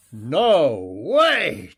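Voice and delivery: a loud call across the water. A narrator's reading. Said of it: "Jeremy's voice was loud".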